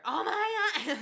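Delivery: high, loud laughing "Oh my God"; laughing mom reaction. Retold or imitated. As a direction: mimic a shocked mom through laughter.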